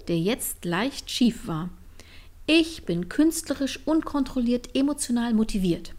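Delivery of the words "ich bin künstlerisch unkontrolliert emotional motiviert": playful indignation. Acted. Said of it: "sagte Line empört".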